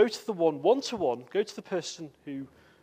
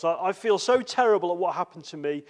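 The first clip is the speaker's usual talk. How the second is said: self-pitying complaint, a touch louder; mock whining; 5 dB louder than usual. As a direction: mildly act out feeling sorry for yourself. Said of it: "Some people begin to whine".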